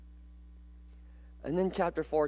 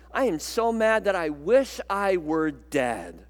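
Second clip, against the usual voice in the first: hammed-up sulking rant, louder; mock angry Jonah; 3 semitones higher, 4 dB louder than usual. Jonah insisting to God he is angry enough to die, mock rant. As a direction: play Jonah fuming like a sulky child. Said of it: "And Jonah says".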